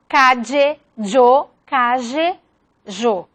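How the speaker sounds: "calle" said "cadje" with a dj sound; "calle" and "yo" with an affricate dj; dj variant. Shown as a demonstration. Teacher shows the dj variant of "calle". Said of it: "distintas variaciones fonológicas".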